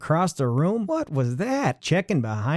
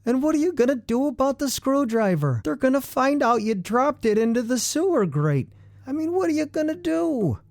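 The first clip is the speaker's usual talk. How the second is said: comic panic; 8 semitones higher than usual. Acted. Narrator spirals into comic panic.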